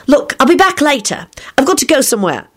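put-on high-pitched, grateful girl; lifted, earnest pitch; fervent. A narrator's reading. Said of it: "Rosie told them fervently".

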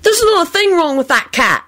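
high-pitched indignant retort; angry protest. A narrator's reading. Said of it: "Alex said angrily".

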